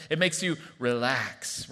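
slow, low and relaxed; easy, drawn-out calm; soothing calm. Shown as a demonstration. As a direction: let the words sink down, unhurried. Acting out the calm of serotonin.

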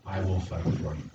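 Jesus promising from the cross, low and soft; soft promise. Acted. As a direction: murmur it as a gentle vow. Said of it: "That was a day when he said".

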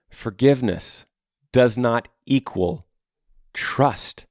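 Forgiveness, pause, does not equal slow, pause, trust; slow emphatic repeat. Shown as a demonstration. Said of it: "I'll say that again".

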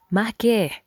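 high, loud furious scream of a name; father yelling his daughter down. A narrator's reading. Father screams at Leah to stop, loud angry yell. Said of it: "Leah's father screamed".

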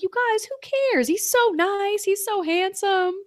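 put-on high, fast, gushing girly voice; a hammed-up infatuated friend, high and quick; mock smitten gushing. Smitten woman defending her date.

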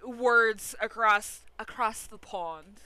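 a slow, lightly put-on British accent; hammy, deliberately bad British accent; mock British accent. Host teasing his British co-host, in a mock British accent. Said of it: "shitty accent".

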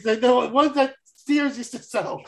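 laughing through the words. Real, not acted. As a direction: talk while breaking into a laugh. Laughing while recalling Sears batteries.

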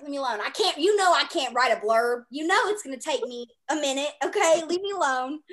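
loud mock exasperation. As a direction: push them off, half laughing. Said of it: "it's like".

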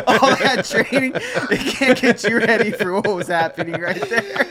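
words broken by real laughter; laughing while talking. Real, not acted. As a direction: laugh through the whole line, slowly. Laughing through the story.

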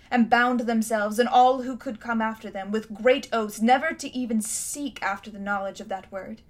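a haughty queen remembering her city's might; lightly voiced imperious queen; proud queen. Queen tells of the word.

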